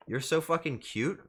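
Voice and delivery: normal talking voice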